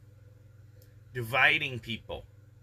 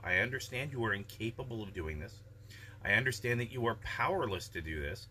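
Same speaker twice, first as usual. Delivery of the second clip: calm firm mom; 5 dB quieter than usual. Retold or imitated. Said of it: "calm, rational discussion".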